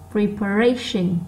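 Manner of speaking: slow "preparation" with RA picked out; stressed third syllable. Shown as a demonstration. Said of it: "nó to hơn những âm còn lại". (đọc chậm, nhấn âm ba của "preparation")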